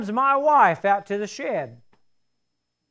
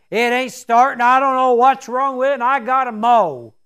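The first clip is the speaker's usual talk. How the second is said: louder, fed-up griping; frustrated; 3 semitones higher, 5 dB louder than usual. Retold or imitated. Husband grumbles to his wife about the mower, frustrated and louder. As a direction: vent at the broken mower. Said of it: "already about half frustrated".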